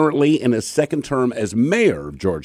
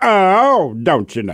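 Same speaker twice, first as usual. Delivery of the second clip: very slow drawl with a light southern twang; 3 semitones higher, 4 dB louder than usual. Recalling an uncle mimicking a trucker for the kids, a bit of a southern twang. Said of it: "It had a bit of a southern twang".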